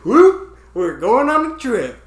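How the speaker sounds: high-pitched cheerful trip announcement; mock excited whoop. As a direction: play it like a thrilled kid launching off. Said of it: "and then I went".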